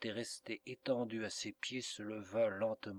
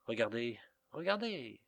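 anguished cry. A narrator's reading. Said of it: "s'écria-t-il".

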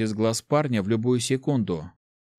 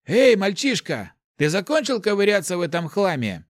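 put-on high, loud, snapping at the boy; sharp rebuke; 9 semitones higher, 4 dB louder than usual. A narrator's reading. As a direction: cut him off sharply. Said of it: "Слишком резко отдёрнул его маг". (резкий окрик)

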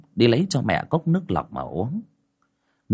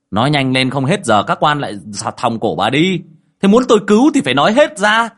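louder, faster, rising to a high push; impatient urging; 5 semitones higher, 7 dB louder than usual. Acted. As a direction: hurry the spirit up, sharply. Thầy giục hồn khai nhanh. (thầy giục hồn ma khai nhanh, to và gấp)

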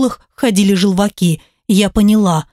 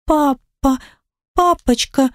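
put-on timid child; 5 semitones higher, slower than usual. Daughter hesitant, high, soft.

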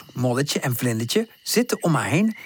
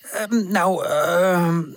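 stammering; 3 semitones higher, much slower than usual. Acted. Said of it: "stamelt tante".

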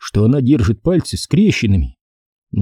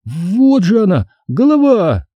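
put-on high, slow, horrified girl's voice; girl's feigned horror; 9 semitones higher, slower than usual. A narrator's reading. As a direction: point in fake terror. Стеф притворно в ужасе. (притворный ужас девочки)

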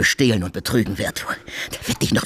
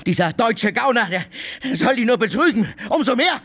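mocking laughter; 14 semitones higher than usual. Drunk mocking Oblomov, laughing.

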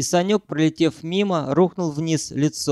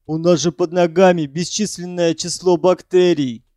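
louder protest; professor voice; 2 semitones higher, 3 dB louder than usual. A narrator's reading. Professor protesting about germs. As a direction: object like a fussy scientist.

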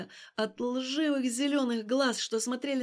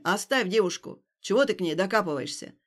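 challenging; 3 semitones lower, 3 dB louder than usual. Acted. Passer-by confronting Stas.

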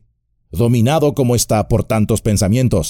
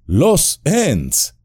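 higher, amazed cry of "Ents"; stunned disbelief at "Los Ents"; astonished exclamation; 9 semitones higher than usual. A narrator's reading. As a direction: gasp it out in wonder. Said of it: "exclamó Aragorn".

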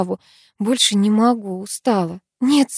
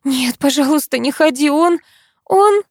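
high, rising panic, stuck on он; wife panicking as her friend heads out; stammering from fear; 6 semitones higher, 3 dB louder than usual. A narrator's reading. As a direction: beg her not to go, stumbling over the words. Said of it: "заикаясь от испуга".

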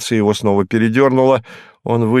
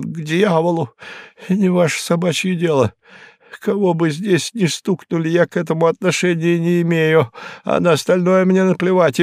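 higher, rising protest; higher, rattled Hinkus, getting agitated; 8 semitones higher than usual. Acted. Hinkus refusing the detective's questions, higher and agitated. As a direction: push back, getting worked up. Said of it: "Hinkus refusing to answer".

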